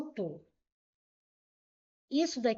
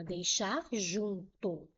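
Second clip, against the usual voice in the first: emphatic slow; 3 semitones lower, 4 dB quieter, much slower than usual. Real, not acted. Teacher stressing the exam board's preference.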